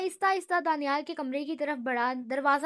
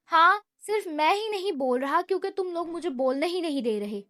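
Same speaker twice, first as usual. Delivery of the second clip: pouting complaint; 2 semitones higher, 3 dB louder than usual. Acted. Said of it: "منہ بناتے ہوئے کہا".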